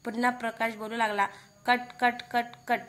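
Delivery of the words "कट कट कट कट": mimicked teeth-chattering, spoken syllables; दात आपटण्याचा आवाज. A narrator's reading. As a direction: click out "कट" like knocking teeth. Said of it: "दातावर दात आपटत". (दातावर दात आपटल्याचा तोंडी आवाज)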